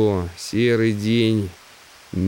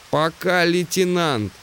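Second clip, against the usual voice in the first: raised, high-pitched voice of a deafened man; 8 semitones higher than usual. Acted. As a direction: speak up over your own deafness. Deaf Simmons saying goodbye.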